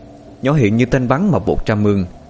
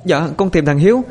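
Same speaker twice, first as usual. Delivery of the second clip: higher, tearful voice on the edge of crying; whimpering; 10 semitones higher than usual. A narrator's reading. Girl tells the neighbor her brother is missing, higher and whimpering. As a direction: answer while trying not to cry. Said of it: "nhỏ Hiền miếu máu".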